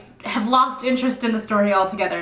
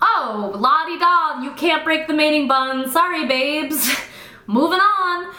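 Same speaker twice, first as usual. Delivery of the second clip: breezy mock voice; 4 semitones higher than usual. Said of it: "You could have just been like".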